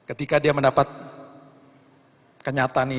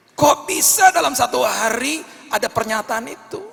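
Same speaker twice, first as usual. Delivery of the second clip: even higher, loud wonder; rising amazement; 11 semitones higher, 7 dB louder than usual. Real, not acted. Preacher marvelling at the miracle, higher still. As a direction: build the astonishment to a peak.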